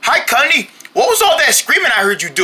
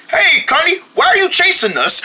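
higher, voice cracking with worry; high anxious call; 7 semitones higher than usual. Acted. Friend calls to Cunny the chaser, high and cracking. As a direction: call out up high, pleading and upset.

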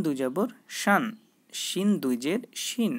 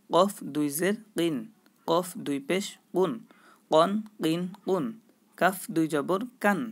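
rhythmic spelling drill. Shown as a demonstration. Teacher drilling students in spelling tanween aloud, rhythmic chant. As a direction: chant each letter, vowel mark and sound in a steady teaching rhythm. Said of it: "এইভাবে বানান করে একবার পড়ব".

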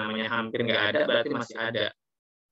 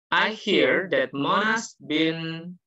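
slow, careful test-audio reading; listening audio read; 2 semitones higher, slower than usual. Shown as a demonstration. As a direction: read it like a recorded exam clip. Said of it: "Anggap saja suara saya ini adalah audionya".

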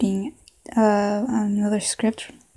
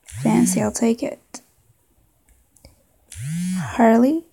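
put-on southern accent. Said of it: "maybe a southern accent".

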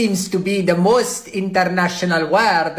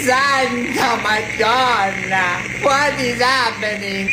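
mock alarm; 5 semitones higher than usual. Host alarmed by strange throaty sound.

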